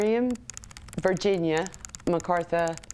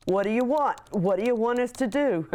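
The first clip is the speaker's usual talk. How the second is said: mock southern yell; 4 semitones higher than usual. Wife's frustration at a blaring truck horn, read back as a mild mock southern yell. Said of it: "yelled in your best southern accent".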